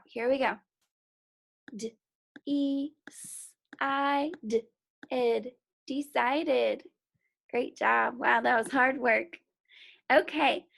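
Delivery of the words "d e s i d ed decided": "D, E, S, I, D, ed" tapped apart, then "Decided" blended; sounds tapped out. Shown as a demonstration. Teacher decoding a word aloud, segmented. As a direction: sound it out piece by piece. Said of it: "Let's try it out".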